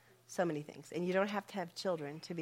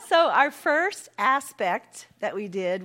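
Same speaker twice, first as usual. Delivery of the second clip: laughing; 3 semitones higher, 10 dB louder, slower than usual. Real, not acted.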